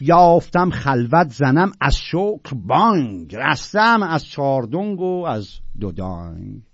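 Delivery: slow, stretched verse reading; measured classical Persian recital; poetry recitation. Acted.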